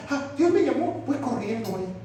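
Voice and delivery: mock eagerness. Mocking an overeager convert.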